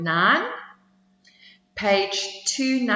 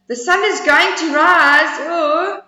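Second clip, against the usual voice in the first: high squeaky squirrel voice; little squirrel; 8 semitones higher, 8 dB louder than usual. Acted. Squirrel questioning the bragging bear, high squeaky voice. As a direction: pipe it up small and high.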